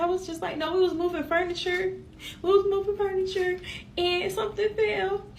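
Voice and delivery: real tearful. Real, not acted. Survivor recalling being too scared to tell police, tearful. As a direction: fight back tears while retelling it. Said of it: "I'm finna get emotional".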